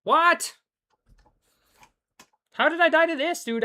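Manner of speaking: high, loud shocked yelp; incredulous outburst. Real, not acted. Gamer to himself after an unexpected death, incredulous. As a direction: blurt it out in sharp disbelief. Dies in the game, disbelief.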